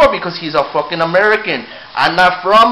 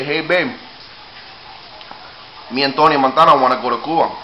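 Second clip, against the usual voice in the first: sweet talk; 6 semitones lower, 6 dB quieter than usual. Real, not acted. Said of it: "I have to talk motherfucking sweet to her".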